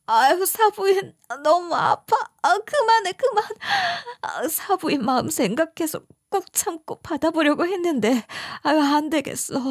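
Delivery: mild imitated wince of pain; pained plea. Sick mother begs in-law to stop pressing. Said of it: "이런 소리를 했겠어요".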